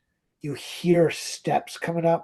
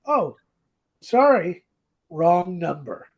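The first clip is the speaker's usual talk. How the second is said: put-on apologetic phone voice, pitched up; George's voice; 4 dB louder than usual. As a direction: lightly act out an apologetic caller, with pauses. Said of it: "you hear George's voice go".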